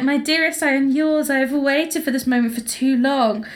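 a touch of breathless romantic melodrama; lovestruck secretary. Acted. Secretary declaring love to her boss, mock romantic.

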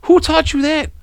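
very high, helpless laughing question; dying laughing. Retold or imitated. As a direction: barely get the words out through laughter. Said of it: "I just started dying laughing".

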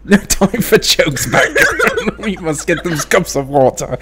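mock British accent. Co-host joking about cups of water, laughing mock British. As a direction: put on a British accent while cracking up. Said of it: "We're all gonna be British".

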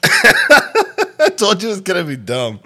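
emo voice. Shown as a demonstration. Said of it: "reads sentence in emo voice".

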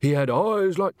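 high, slow, insistent storytelling; peeved victim reclaiming attention; snappish. A narrator's reading. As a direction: seize the story back irritably. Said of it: "snapped Tommy".

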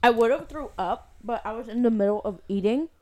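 talking through a mouthful of ice cream; mouth full. Real, not acted. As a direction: speak around a cold spoonful. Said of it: "why are you speaking like this".

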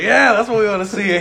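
coach shouting. Retold or imitated. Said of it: "He was like".

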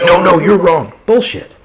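imitated knee-jerk correction; quick-trigger objection. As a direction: jump in to contradict, acting it out. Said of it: "so quick on the trigger".

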